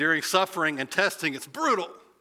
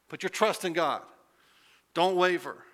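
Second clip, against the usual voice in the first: rallying encouragement; 4 semitones higher than usual. Retold or imitated. James urging believers to stand firm.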